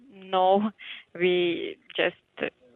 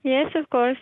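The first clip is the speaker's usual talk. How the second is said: long distance phone call; 7 semitones higher, 4 dB louder than usual. Real, not acted. Receptionist on the phone.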